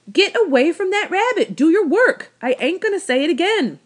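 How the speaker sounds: put-on high, loud, furious old woman; fed-up old woman yelling at the boy; angry old woman. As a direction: bark orders at the boy. Old woman yells again.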